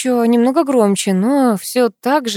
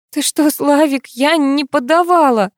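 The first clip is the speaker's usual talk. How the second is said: frightened denial; 6 semitones higher, 4 dB louder than usual. A narrator's reading. Frightened wife denies accusation.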